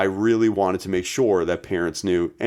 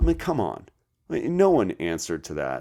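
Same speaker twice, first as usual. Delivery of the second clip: ordinary talk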